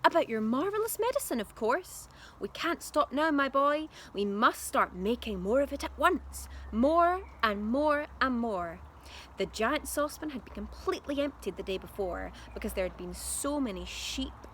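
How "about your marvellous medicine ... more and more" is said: excited dad. A narrator's reading.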